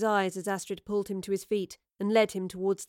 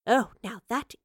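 slow, louder, savouring admiration; enthusing; 5 dB louder, slower than usual. A narrator's reading. Professor examines the vase thrown at her, enthusing. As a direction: admire it with relish. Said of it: "she enthused".

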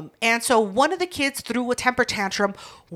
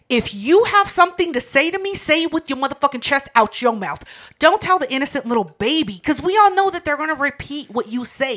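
upset; 3 semitones higher than usual. Retold or imitated. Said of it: "I was so upset".

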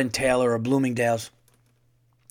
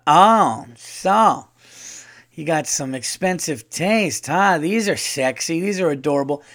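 lightly imitated gushing older woman, pitch swooping; drawn-out, playful admiring impression; old-school woman; 3 semitones higher, 3 dB louder than usual. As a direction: ooh and aah over the goods, mock-impressed. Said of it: "she was going".

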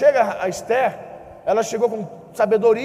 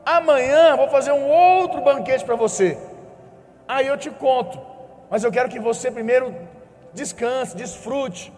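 soothing wife; 4 semitones higher than usual. Retold or imitated. Esther soothing the king.

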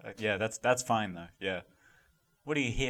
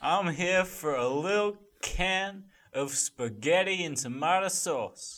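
goofy stegosaurus; 3 semitones higher, slower than usual. Acted. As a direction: play a silly dinosaur announcing itself. Dinosaur voice continues.

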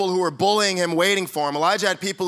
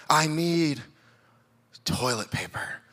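dopey murmur; 3 semitones lower, 5 dB quieter, slower than usual. Retold or imitated. Drugged friend repeats request.

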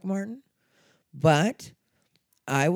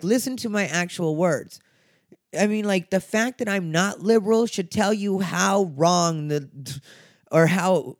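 worked up; 4 semitones higher than usual. Real, not acted. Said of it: "I'm a little bothered right now".

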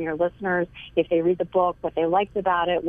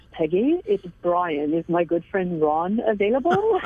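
put-on light French accent. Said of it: "beautiful French thick accent".

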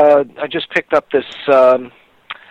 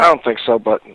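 whistling s; 5 semitones lower than usual. Real, not acted. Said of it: "Sorry about the whistle".

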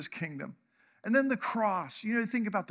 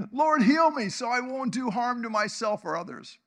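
a bit higher, louder prayer; earnest plea; 4 semitones higher, 4 dB louder than usual. Acted. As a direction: plead sincerely. Jabez voiced praying to God.

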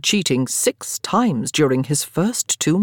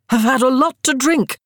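put-on much higher, louder drunken teasing; tipsy accusation; 9 semitones higher, 4 dB louder than usual. A narrator's reading. Daniel drunkenly teasing Hugh about drink, loud and high. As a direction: tease him with a wobbly grin.

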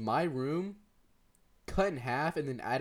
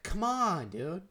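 higher-pitched mock kid complaint; exasperated protest; 5 semitones higher, slower than usual. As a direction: plead it like a put-upon kid. Retold whining protest to mom.

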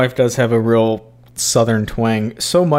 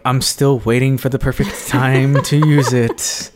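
comic self-mockery, stressing "time"; hammed-up punchline with a big push on "time"; mock long-suffering waiting; 2 semitones higher than usual. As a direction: play someone still waiting years on. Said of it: "three years later, you're like".

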